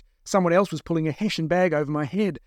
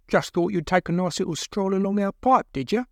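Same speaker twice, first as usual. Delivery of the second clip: higher, taunting captor; mocking captor; 5 semitones higher than usual. Second captor taunting a captive, mocking. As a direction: needle the prisoner with mock belief.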